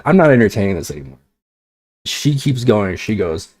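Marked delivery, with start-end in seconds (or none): 0.0-1.2 louder and quick, leaning on "not"; firm and louder. Retold or imitated. Repeating the line to roommate, firm, louder and fast. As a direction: shut it down fast, stressing "not". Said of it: "I said".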